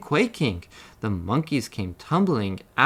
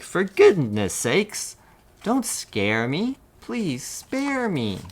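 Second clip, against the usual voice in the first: pleading; 7 semitones higher, slower than usual. A narrator's reading. Elephant begs the mouse.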